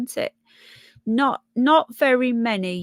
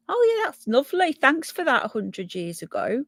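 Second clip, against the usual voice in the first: quick, much higher mock-delighted opening; sarcastic; 4 semitones higher than usual. Real, not acted. Thanking the old newspaper for the starvation forecast, sarcastic. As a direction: pretend to be pleased by bad news.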